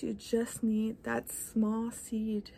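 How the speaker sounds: slow hushed whisper, leaning in close; soft whisper. Real, not acted. Speaker whispering the key idea to her viewers, slow and hushed. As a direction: whisper it slowly like a secret. Slowing down to stress a point.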